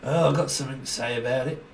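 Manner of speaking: a touch of a whiny know-it-all; lightly voiced complainer; mock busybody. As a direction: mimic the nagging voice lightly.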